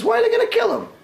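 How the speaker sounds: high, shocked woman's voice; high-pitched astonished noblewoman; Roman woman. Retold or imitated. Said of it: "And the Roman woman says".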